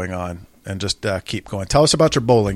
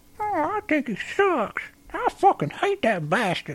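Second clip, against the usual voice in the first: very high puppet voice with wide pitch swoops; 7 dB quieter than usual. Doing a ventriloquist bit, the speaker answers as the dummy: Lester ventriloquist dummy voice. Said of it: "rate you as a ventriloquist".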